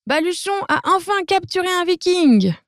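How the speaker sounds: high, proud announcement; triumphant cry. Acted. Dragon king proudly announces a capture, high and triumphant. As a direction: crow it out in triumph. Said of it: "Furibon crie".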